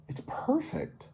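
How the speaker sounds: high, slow whisper of delight. Acted. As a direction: breathe it out slowly in a whisper. Barry admires the blue ocean.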